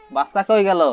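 high, loud alarmed call. Acted. Player suddenly missing the game baby, alarmed.

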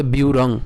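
ব্যুরং said as bi-u-rong, the য-ফলা as a light i-u glide; ব্যুরং উচ্চারণ, য-ফলা অন্তঃস্থ য়-এর মতো; pronunciation demo. Shown as a demonstration. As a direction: model ব্যুরং carefully for learners. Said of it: "তাহলে উচ্চারণ কেমন হবে".

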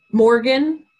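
name called out loud and high; shouting a name. Shown as a demonstration. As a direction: shout the name across a room. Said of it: "sounds like you're shouting Morgan's name".

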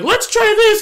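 high, bright mock voice of the show; mocking the writers with a squeaky quote; mock chirpy quote. Mocking show's new direction.

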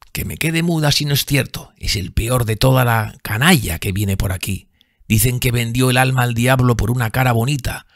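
lightly voiced bitter drunk woman; bitter bar woman. A narrator's reading. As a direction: spit contempt at him.

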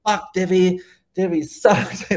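high-pitched mock scream of outrage; high, strained retold rant; imitated screaming. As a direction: act out someone screaming in a rage, pitch jumping way up. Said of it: "Literally, he was screaming".

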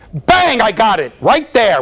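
sudden high loud cry of triumph; excited bang. Shown as a demonstration. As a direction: shout it like you just caught her. Teacher catches target behavior.

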